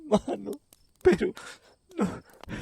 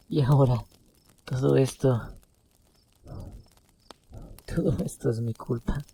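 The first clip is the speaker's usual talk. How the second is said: tearful apology; 4 semitones higher than usual. A narrator's reading. Brother apologizes to dying brother.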